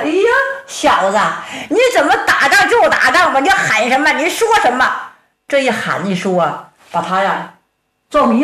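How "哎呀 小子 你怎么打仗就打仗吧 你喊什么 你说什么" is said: higher, fast, laughing complaint; the dazed big man whines at the kid; flustered giant. Acted.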